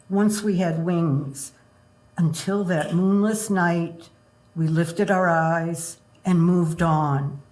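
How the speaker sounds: poetry reading. Acted. Reads poem about progress.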